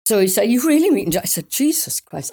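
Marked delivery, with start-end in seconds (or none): 0.5-1.2 high, louder disbelieving cut-off question; he can't believe it, pitched up; incredulous question. Retold or imitated. Husband Mike on the phone, high incredulous question. 1.5-2.3 high exasperated outburst; fed up that he won't believe her. Retold or imitated. To husband Mike, high exasperated outburst.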